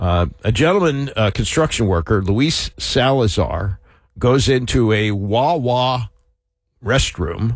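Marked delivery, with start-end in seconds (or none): 4.2-7.6 very slow, deliberate, stretched-out delivery. Telling a news story, the speaker says this part very slowly. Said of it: "I said that slowly".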